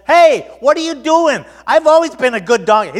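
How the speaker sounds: loud, high, indignant complaint; protesting donkey. Acted. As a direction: play the wronged donkey protesting. Voices the protesting beaten donkey.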